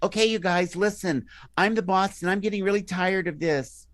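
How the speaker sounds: high, loud whiny boss voice; a boss who sounds like an idiot; weak mob boss. Shown as a demonstration. Mob boss scolding his crew, high and whiny. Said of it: "he sounds like an idiot".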